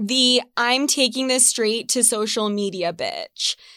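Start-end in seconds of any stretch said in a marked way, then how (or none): none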